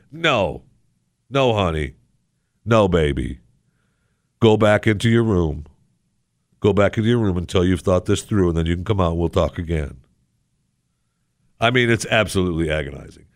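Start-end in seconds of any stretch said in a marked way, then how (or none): 0.1-9.3 a hint of a firm parent; mock parent. Like a parent to a sulking child, lightly firm. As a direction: send the kid to their room gently but firm.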